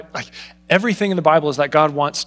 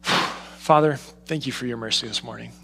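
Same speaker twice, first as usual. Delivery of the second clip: softer, hushed thanks to God; soft prayer; 4 semitones lower, 5 dB quieter than usual. Retold or imitated. Pastor retelling his morning prayer to the congregation, hushed. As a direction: breathe out and pray it gently. Retold prayer after deep breath.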